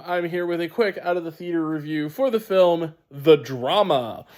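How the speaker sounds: wheezy, stuffed-up sinus voice. Real, not acted. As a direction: talk through blocked sinuses, a bit wheezy. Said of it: "if I sound a little bit wheezy, 'cause I am".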